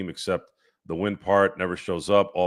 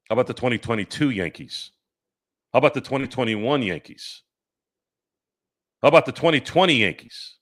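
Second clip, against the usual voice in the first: building taunt; 4 semitones higher, 3 dB louder than usual. Real, not acted. Taunting a chatter, each jab bigger.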